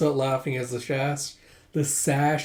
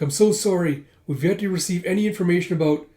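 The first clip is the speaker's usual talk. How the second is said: flustered report; 4 semitones higher, 4 dB louder, faster than usual. Acted. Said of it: "You should speak more softly".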